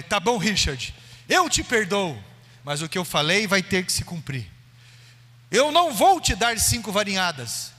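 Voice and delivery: forgiving but unbending, projected to the congregation; firm loud mother. Retold or imitated. Mother tells Richard the word must still be kept, firm and loud.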